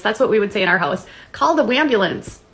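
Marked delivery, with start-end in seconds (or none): 1.3-2.4 high, swooping mock distress call; hammed-up cry for help; mock alarm. Taunting complainers with a household joke, mock alarm.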